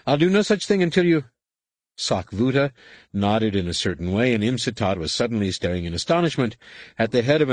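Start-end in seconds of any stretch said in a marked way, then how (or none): 0.1-1.3 fast, high, loud protest; indignant outburst. A narrator's reading. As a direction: blurt it out in outrage. Human protests, then is killed.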